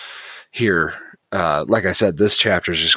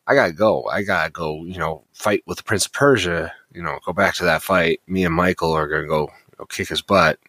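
casual Gabriel paraphrase; faster than usual. Retold or imitated. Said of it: "Gabriel here is talking very much about, like".

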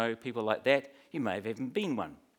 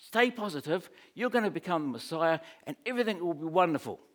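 higher, pushy salesman pitch to Jesus; Peter pleading like a campaign adviser; 5 semitones higher than usual. Retold or imitated. Peter coaxing Jesus aside, higher and eager. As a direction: sell him the positive spin, eagerly. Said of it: "Peter said".

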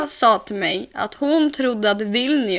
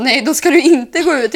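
firm refusal; 4 semitones higher, 8 dB louder than usual. Retold or imitated. Patrik refusing, voiced in story.

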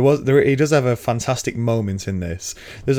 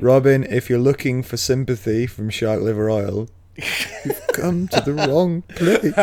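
drawn-out, hammed-up catchphrase; slow right down and pitch up for the punchline; Tyrion impression; 3 semitones higher than usual. Host twisting a trailer line at Robin, hammed-up impression. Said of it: "you do a better impression of it".

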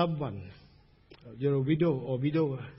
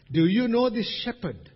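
higher, raised preaching voice; emphatic question; 5 semitones higher, 3 dB louder than usual. Real, not acted. Preacher asks congregation about knowing the shepherd, emphatic. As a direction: put the question out firmly.

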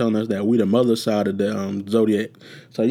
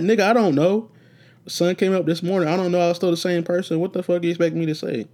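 exasperated retort; 5 semitones higher than usual. Retold or imitated. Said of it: "I'm like".

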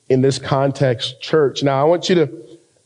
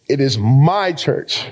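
"my" hit firmly, slowly; stress on MY; slower than usual. Shown as a demonstration. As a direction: claim ownership on "my". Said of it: "He declares ownership over the church".

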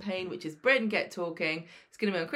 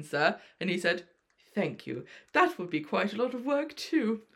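William Roach impression; 3 semitones higher than usual. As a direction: play the veteran soap star telling an anecdote. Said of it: "your best William Roach impression".

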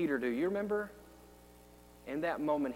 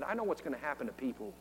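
softer, quick and inward; hushed; 2 semitones lower, 6 dB quieter, faster than usual. Acted. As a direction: say it almost to yourself. Quiet take of Peter's line.

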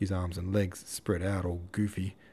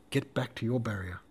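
wounded duelist's cry; 3 semitones higher than usual. A narrator's reading. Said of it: "when Dolokhov cried".

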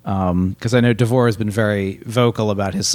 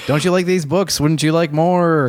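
disembodied voice; 5 semitones higher than usual. Pretend. Continues the pompous video voice.

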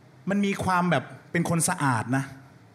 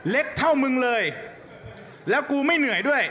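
taunting; 8 semitones higher than usual. Acted. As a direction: gloat as the ghost, higher. Ghost taunting, escalating.

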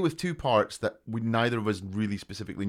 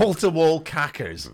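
slow, louder disbelieving repeat; incredulous echo; 6 semitones higher, 6 dB louder, slower than usual. Real, not acted. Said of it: "echoing a strange phrase".

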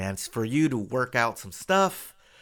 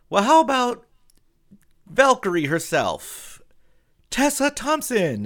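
much higher, louder, slow showman build; emcee introduction; 12 semitones higher, 8 dB louder, slower than usual. Retold or imitated. Studio boss introducing the star, showman announcer. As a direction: tease the guest like a game-show host. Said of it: "Then he goes".

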